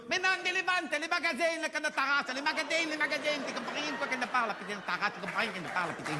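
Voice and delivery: put-on exasperated Asian-Marseille accent, very high. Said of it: "ils parlent comme ça".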